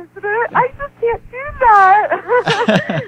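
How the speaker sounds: high, slow, pleading cry; half-crying refusal, drawn out high; retold tearful plea. To him, refusing to change, high tearful plea. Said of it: "I was crying to him".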